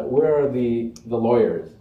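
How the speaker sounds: loud, lightly British roll-call; comic devil host with a British touch; imitated British accent. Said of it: "he has his British accent".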